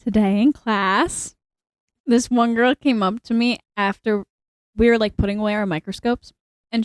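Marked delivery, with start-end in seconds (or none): 0.0-1.3 slower retake, right up on the microphone; close-miked, unhurried restart; closer to mic. Real, not acted. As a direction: lean into the mic and slow down. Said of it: "Nope, closer".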